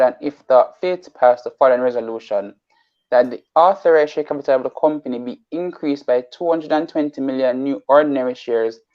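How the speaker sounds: reading a resolution briskly; fast reading. Real, not acted. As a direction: rattle through the formal wording. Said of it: "Apologies for being so fast".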